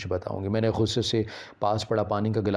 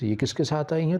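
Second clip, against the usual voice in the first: mother throws the question back, pitched higher with a rising end; mother mocking her daughter's question, higher and rising; mocking echo; 6 semitones higher than usual. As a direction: parrot her words back sharply. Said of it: "اماں نے کہا کہ سندس".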